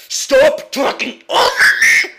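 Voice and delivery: slow furious yell; angry shout. Real, not acted. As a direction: scream it, worked up. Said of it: "I got a little bit worked up".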